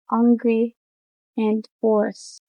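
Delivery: "hungry" and "hoarse" without the initial H; H dropped. Shown as a demonstration. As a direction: start "hungry" and "hoarse" straight on the vowel. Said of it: "H dropping".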